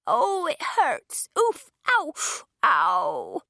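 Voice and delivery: high, loud whimpering in pain; pained cries. A narrator's reading. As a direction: moan and yelp, hurt and helpless. Injured old woman on floor.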